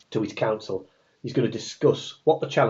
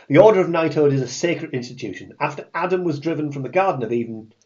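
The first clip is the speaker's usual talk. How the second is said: Joe Pasquale voice; 3 semitones higher than usual. Acted. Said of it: "in his Joe Pasquale voice".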